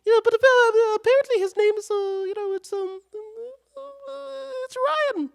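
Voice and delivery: squeaky high mock voice; mock him in a high squeak. Streamer mocking the name correction, squeaky high.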